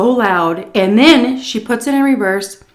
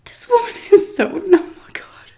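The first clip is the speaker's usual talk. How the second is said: whispered, breathy disbelief; laughing whisper; 13 semitones higher than usual. Real, not acted. Storyteller whispering in disbelief about the driver. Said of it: "laughing whisper about driver".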